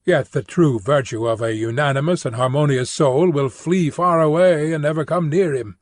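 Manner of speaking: ordinary talk, nothing marked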